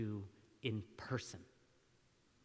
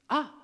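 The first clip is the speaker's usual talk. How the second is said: ah of discovery; 11 semitones higher, 7 dB louder than usual. Shown as a demonstration. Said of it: "Is it discovery?".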